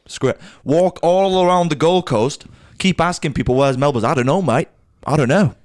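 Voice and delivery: light Aussie twang on the quotes; a passing go at an Australian accent; lightly voiced Aussie locals. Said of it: "you actually managed to do an accent right for once".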